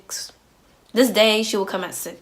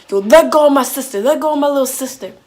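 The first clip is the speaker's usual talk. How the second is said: brothers yelling, loud and a bit higher; loud protest; 5 semitones higher, 7 dB louder than usual. Retold or imitated. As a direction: shout it to defend a little sister. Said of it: "they're all loud".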